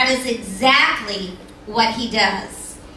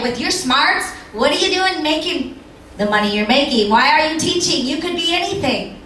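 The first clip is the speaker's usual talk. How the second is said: mock; 3 semitones higher, faster than usual. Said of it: "they mock you".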